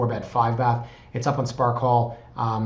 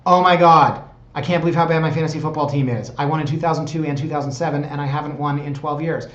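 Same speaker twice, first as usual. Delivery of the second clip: higher, loud mock outburst that settles slightly; loud acted exasperation; 3 semitones higher, 6 dB louder than usual. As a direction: groan loudly about your hopeless team, hammed up. Acting out himself watching football.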